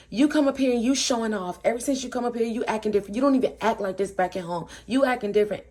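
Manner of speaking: mildly heated mock scolding; retold accusation. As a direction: imitate a friend calling someone out. Acted accusation in an argument.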